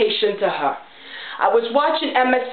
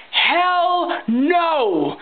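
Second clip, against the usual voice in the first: HELL punched, higher, falling hard; emphatic hell no; 5 semitones higher than usual. Real, not acted. Ranting vlogger to viewers, emphatic refusal. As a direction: slam down the answer. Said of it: "I'll say it again".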